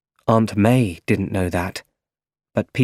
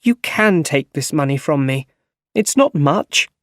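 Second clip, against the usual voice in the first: mild anger; 5 semitones higher than usual. Acted. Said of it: "she said angrily".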